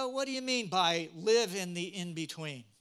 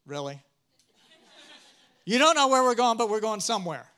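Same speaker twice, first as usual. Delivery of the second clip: sarcastic wife; 5 dB louder, faster than usual. Retold or imitated. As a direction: play the wife, disbelieving and exasperated. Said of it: "and she's going".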